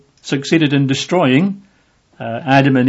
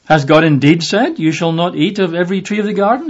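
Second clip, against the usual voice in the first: higher, lightly sly questioning voice; doubt-sowing serpent; 4 semitones higher than usual. Retold or imitated. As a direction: twist the quote like a tempting serpent. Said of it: "He changes the emphasis of the Word of God".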